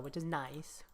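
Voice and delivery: whisper. Real, not acted. Quiet aside during play.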